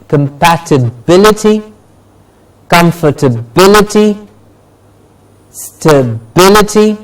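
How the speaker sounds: "compatibility, comfortability, stability" spaced out, weight just before ity; stress before -ity. Shown as a demonstration. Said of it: "the syllable stress before ity is stressed".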